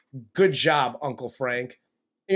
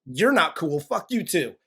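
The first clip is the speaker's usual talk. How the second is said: voicing Kevin. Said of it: "He was like".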